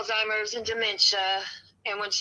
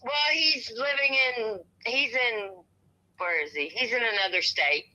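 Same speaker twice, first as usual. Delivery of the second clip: shivering from cold; 2 semitones higher than usual. Real, not acted. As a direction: voice shaking from the cold. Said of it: "I'm freezing is why I can't talk".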